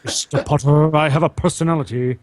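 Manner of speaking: Snape, but lightly excited; a hint of an eager Snape. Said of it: "a very excited Snape".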